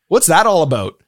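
put-on Canadian accent, playfully puzzled; jokey Canadian accent; mock Canadian accent. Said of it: "notoriously, uh, make funnable accent".

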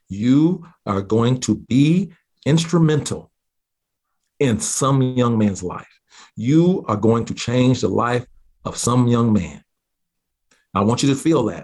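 slow, weighty prophetic pronouncement; theatrical, drawn-out proclamation; dramatic prophesying aunt. Retold or imitated. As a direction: declare it slowly, word by word, as prophecy. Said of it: "She's a very dramatic speaker too".

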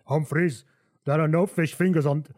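off-target attempt at Johan's accent; botched Johan accent. Johan confronts Humphries about fish fingers, accent slightly off. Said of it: "get the accent right".

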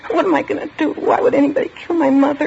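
put-on a frightened girl cracking under the shock; distraught outburst. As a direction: voice rising high in sudden panic. Girl breaks down over murdered mother.

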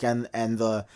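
low, soft mutter imitating a joker; under his breath. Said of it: "he under his breath".

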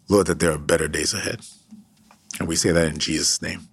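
earnest, steady prayer voice; fervent pastoral prayer; closing prayer. Acted. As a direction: pray over the listeners.

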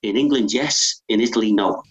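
lightly imitating Maldini's Italian-accented English. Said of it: "in his Italian accent speaking English".

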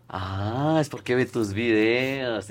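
imitating mom. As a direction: voice his mom, low and slow. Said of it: "Y mi mamá". (imitando a la mamá, grave y lenta)

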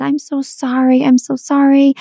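high, pained apology; pleading apology. Retold or imitated. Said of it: "And I said".

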